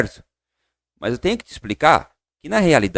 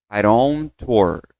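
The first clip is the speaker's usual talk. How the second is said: very slow, spaced-out teacher demo; slow model; 5 semitones lower, much slower than usual. Shown as a demonstration. Teacher models the answer for students, very slow. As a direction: say each word apart, slowly. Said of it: "vamos lá comigo".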